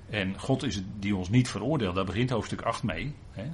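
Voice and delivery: normal talking voice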